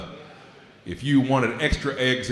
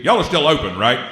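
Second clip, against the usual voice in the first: louder, higher hopeful question; 4 semitones higher, 6 dB louder than usual. Retold or imitated. Customer at a crime scene asking if the diner's open. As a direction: ask it like nothing else matters. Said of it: "It's gonna be".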